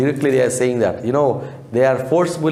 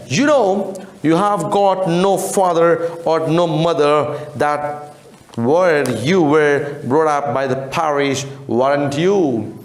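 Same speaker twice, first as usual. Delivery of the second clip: stern questioning gentleman; 3 semitones higher, slower than usual. Acted.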